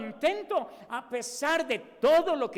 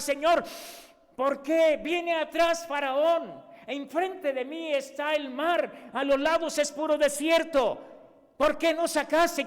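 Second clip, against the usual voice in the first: raised, slow anxious plea to the Lord; Moses pleading; 4 semitones higher, 3 dB louder than usual. Retold or imitated. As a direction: cry out like a frightened Moses, slowly. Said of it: "le dijo a Moisés cuando se puso a llorar".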